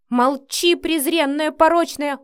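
loud, high, contemptuous outburst; furious insult. A narrator's reading. Mother-in-law silencing the young wife, furiously. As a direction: shout her down with contempt.

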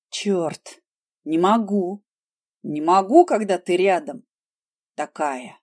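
hissed through clenched teeth; strained, forced through teeth; through gritted teeth. A narrator's reading. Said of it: "цедил каждую фразу сквозь зубы".

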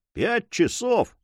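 high, drawn-out exclamation; astonished cry. A narrator's reading. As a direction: cry out slowly in disbelief. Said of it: "вскричал Мигель".

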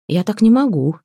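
acted loss of patience; fed-up outburst. A narrator's reading. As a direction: burst out as if unable to bear it. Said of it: "не выдержала Лена".

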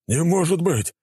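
high, loud enraged shout; enraged outburst. Acted. Attacker erupts at the commander, enraged. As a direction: explode in disbelief. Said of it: "взбесился нападавший".

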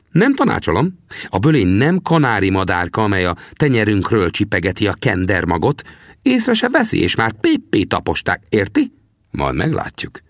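put-on old trapper questions the young man. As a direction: play the grizzled scout, needling the greenhorn. Sam warns.

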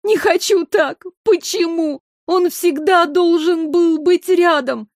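high, tearful protest stressing Не; Майра sobbing that he should be here; desperate sobbing. A narrator's reading. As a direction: cry out against the loss. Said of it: "отчаянно зарыдала Майра".

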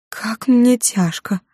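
high, slow, drawn-out lament; a faint, slow moan of weariness; plaintive complaint. Acted. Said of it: "пожаловалась Юдив подруге". (жалобно, протяжно и медленно)

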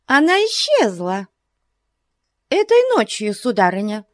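high, dramatic announcement; exclaiming. A narrator's reading. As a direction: proclaim it for effect. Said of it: "воскликнула миссис Бьют". (восклицая)

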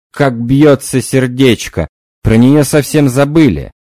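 loud agitated cry; agitated exclamation. Acted. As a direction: exclaim over the fluttering heart. Medium voices a new spirit.

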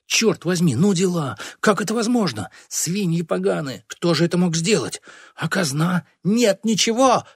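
high-pitched, indignant wailing; wailing outcry. A narrator's reading. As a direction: cry out in outraged disbelief. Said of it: "вопил Гранжебюс". (возмущённый вопль)

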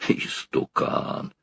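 «Истукан!» whispered slowly; whispered insult. A narrator's reading. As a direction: breathe out «Истукан!» slowly under your breath. Повтор слова шёпотом. («Истукан!» медленным шёпотом)

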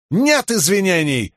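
high, slow, broken-Russian declaration; proclaiming Horneater accent. A narrator's reading. Shallan, faking a Horneater, declares to Kal in a fake Horneater accent. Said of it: "объявила Шалан".

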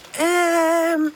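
high, drawn-out hesitation; unsure young character; hesitant. A narrator's reading. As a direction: stall with a long, high filler. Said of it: "zegt Charlie aarzelend".

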